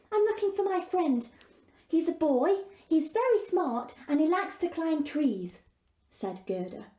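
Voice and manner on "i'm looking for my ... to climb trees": put-on higher, eager girl's voice; a worried girl asking for help; lightly voiced young girl. Gerda asks the raven.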